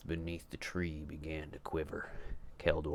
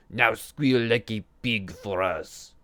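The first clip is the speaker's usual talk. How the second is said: high, much louder imp demand; 6 semitones higher, 13 dB louder than usual. A narrator's reading. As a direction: bark the order like a gleeful imp. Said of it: "the imps demanded".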